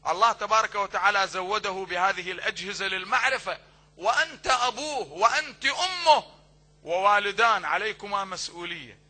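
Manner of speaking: loud, impassioned sermon delivery; preaching at full force. Acted. Preacher urging parents from the pulpit, loud and fervent. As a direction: drive the duty home to the parents.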